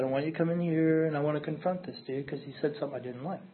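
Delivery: quiet, even request to the manager; real calm. Retold or imitated. Asking the manager to step in, calm and quiet. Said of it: "I was real calm".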